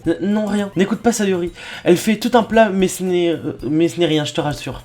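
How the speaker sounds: lightly voiced girl stammering in embarrassment; flustered shy girl. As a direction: play down the fuss, stumbling a little. Voices embarrassed Yuri denying it.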